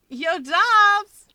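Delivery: high, loud call from behind the door. A narrator's reading. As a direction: shout a greeting as you barge in. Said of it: "a new voice calls".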